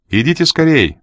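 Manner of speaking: high, urgent call. A narrator's reading. Жанна from the upper landing, calling urgently. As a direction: call them to hurry. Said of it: "позвала Жанна с верхней площадки".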